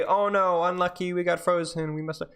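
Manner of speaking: mock excuse voice. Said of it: "let's not just say".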